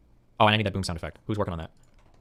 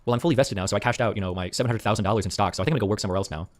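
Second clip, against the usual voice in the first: tech bro voice; 4 semitones lower, 5 dB quieter than usual. Retold or imitated. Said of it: "Then I ask these tech guys".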